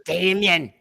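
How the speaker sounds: loud called name; calling out Damien. Retold or imitated. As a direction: shout the name out. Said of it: "and he goes".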